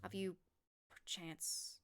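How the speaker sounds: put-on low, careful old sage voice; a hesitant elder sharing news; old man voice. Old man reveals a secret.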